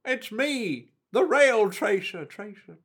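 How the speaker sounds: high, fading spooky voice; hammed-up ghost introducing itself; spooky announcement. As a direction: announce yourself like a ghost then trail away. Voices the rail tracer.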